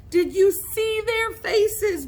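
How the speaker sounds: high, drawn-out gleeful crowing; laughing. A narrator's reading. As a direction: crow with amusement, slowly and loudly. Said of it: "Billy said, laughing".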